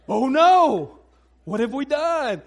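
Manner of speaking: loud, dismayed cry of alarm; hammed-up parental panic; mock horror. Parent mortified at daughter's rudeness, mock horrified cry. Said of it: "one of those parents".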